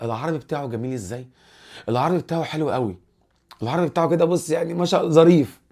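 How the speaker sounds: hammed-up admiring onlooker; gushing admiration. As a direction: gush over someone's skill, stretching the final praise. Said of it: "تلاقي واحد إيه بقى المصري يقول لك".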